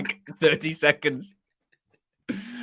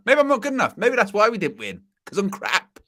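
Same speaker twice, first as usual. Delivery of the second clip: mock self-pitying manager; 5 semitones higher than usual. Pundit mocking a manager's meltdown, whiny and high. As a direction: ham up a manager doubting himself.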